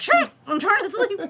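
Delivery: high, loud, exaggerated irritation; mock angry yell. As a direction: playfully yell down at noisy family. Retold yelling at whispering family downstairs.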